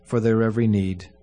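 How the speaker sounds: solemn, measured funeral prayer. Acted. Pastor prays at a funeral.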